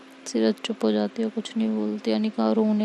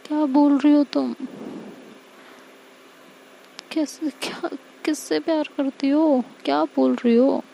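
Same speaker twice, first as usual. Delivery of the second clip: 1 shocked father; 4 semitones higher, 4 dB louder than usual. A narrator's reading. Father shocked by daughter's news.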